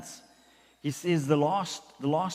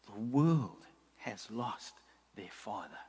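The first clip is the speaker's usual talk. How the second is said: put-on slow, low, fading words of an old man; aching lament; 6 semitones lower, 7 dB quieter, slower than usual. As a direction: let it ache and fall away. Aching old man's quote.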